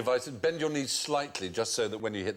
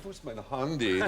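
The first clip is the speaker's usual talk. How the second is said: put-on camp German accent, lightly done; a hint of camp German. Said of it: "can you just do handy again for me?".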